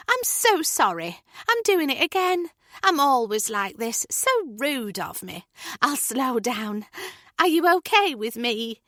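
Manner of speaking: apologetic Julie. Acted. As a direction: rein yourself in, sorry.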